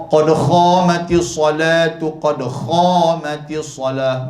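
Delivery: khamatis said with a rasping kh, slowly; mispronounced khamatis. Shown as a demonstration. Preacher mocks a mosque caller's wrong khamatis. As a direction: imitate the wrong qad khamatis salah. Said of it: "Betul ke?".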